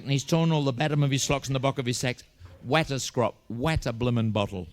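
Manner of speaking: put-on excited kid's tale with "capper" for copper, "hoppily" for happily; interchangeable vowels. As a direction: swap "a" and "o": "dag" for dog, "mod" for mad. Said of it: "they seem to be completely interchangeable".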